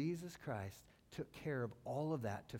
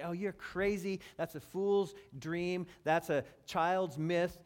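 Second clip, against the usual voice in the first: mocking scoff; 3 semitones higher, 5 dB louder, slower than usual. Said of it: "people mock and they scoff".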